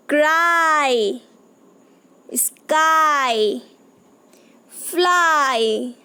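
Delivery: क्राई, स्काई, फ्लाई each slow and drawn out; slow repeated words. Shown as a demonstration. Teacher repeats rhyming words for kids, slow and drawn out. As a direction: spell the long ai out word by word. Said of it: "हम repeat करते हैं".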